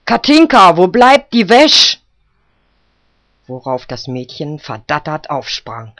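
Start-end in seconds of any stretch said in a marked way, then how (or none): 0.0-2.0 put-on old woman's loud, high call; high, impatient shout across the yard. A narrator's reading. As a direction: yell for the girl from the doorstep. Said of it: "trat vors Häuschen und rief".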